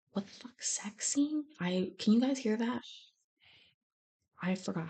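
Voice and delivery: breathy muttered aside; whisper. Real, not acted. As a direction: whisper it to yourself while searching. Startled by video sound.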